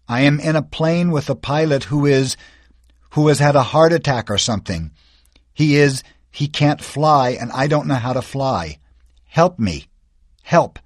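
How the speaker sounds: put-on boy tells the radio the pilot is dead, pleading; desperate plea. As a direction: fight the panic as you explain.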